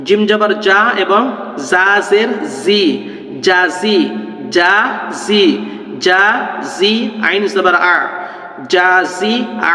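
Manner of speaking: জাজি said slowly, each syllable cut apart. Shown as a demonstration. Teacher repeating জাজি for learners, slow and cut apart. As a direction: spell out জিম জাবার জা slowly, syllable by syllable. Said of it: "কেটে কেটে".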